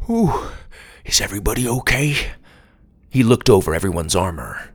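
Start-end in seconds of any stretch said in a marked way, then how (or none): 0.1-2.2 out of breath. Acted. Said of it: "Grandpa caught his breath".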